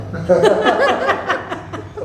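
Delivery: a big high burst of laughter; hearty laugh. Real, not acted. Guest laughs at what people must say about him: hearty laugh. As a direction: laugh it off, amused by the question.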